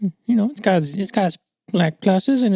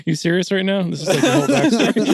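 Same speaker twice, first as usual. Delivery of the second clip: laughing impression. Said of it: "Sean's like".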